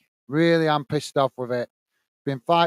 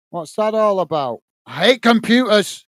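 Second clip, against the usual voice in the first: louder, higher outburst at the computer; real frustration; 4 semitones higher, 4 dB louder than usual. Real, not acted. Streamer cursing his computer, frustrated outburst. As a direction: vent at the machine.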